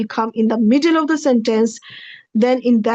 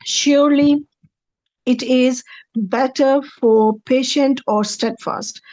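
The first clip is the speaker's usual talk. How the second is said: "Surely" raised, pause, then the rest slowly; slow careful translation; slower than usual. Shown as a demonstration. Teacher reading out the verse translation for students, slow. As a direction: read the translation slowly, weighing each word. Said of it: "Translation is".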